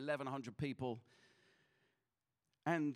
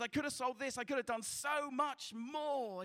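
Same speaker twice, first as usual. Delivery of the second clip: mild tearful Schindler; 10 semitones higher than usual. Retold or imitated. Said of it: "he says".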